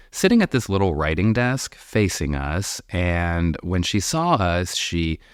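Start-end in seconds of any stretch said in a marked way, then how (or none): none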